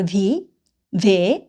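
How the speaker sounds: "ভে" with a clear v, the German letter W; teacher sounds out "ভি", pause, "ভে". Shown as a demonstration. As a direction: say the letter as "vee", then "veh". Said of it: "ওরা উচ্চারণ করে".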